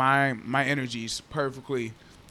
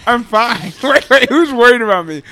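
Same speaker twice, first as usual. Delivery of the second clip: laughs it off, loud and high; real incredulous laughter, louder and higher; laughing disbelief; 8 semitones higher, 17 dB louder than usual. Real, not acted. Told friends worry, he laughs loudly in disbelief.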